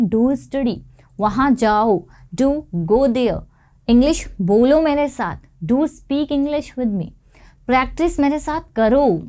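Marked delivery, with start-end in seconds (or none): 2.3-3.4 slow, stressed "do" in do go there; emphatic do. Shown as a demonstration. Teacher modelling emphatic command to students, slow stressed do. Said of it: "जोर देकर बोलना चाह रहे हैं". 5.6-7.1 slow, stressed "do" in do speak English with me; emphatic do. Shown as a demonstration. Teacher urging students to practise, slow stressed do. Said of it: "जोर देकर बोलना चाह रहे हैं".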